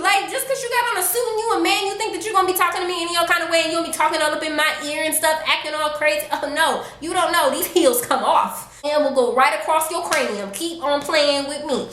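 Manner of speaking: high, fast, fired-up rant; heated retort. Retold or imitated. To the man who threatened to smack her, fired up. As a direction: tell him off without backing down.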